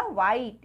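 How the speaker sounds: व्हाइट starting on a plain W, no H; silent H. Shown as a demonstration. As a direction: drop the H in व्हाइट. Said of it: "हमने एच तो नहीं बोला".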